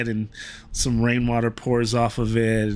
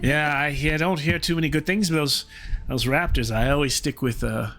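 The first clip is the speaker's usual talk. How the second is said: chatty dwarf voice. Acted. Dwarf chats about raptors.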